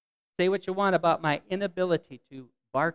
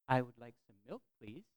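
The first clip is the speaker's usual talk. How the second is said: polite request; 4 semitones lower, 7 dB quieter than usual. Shown as a demonstration. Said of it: "I would say the sentence that I wanted them to say".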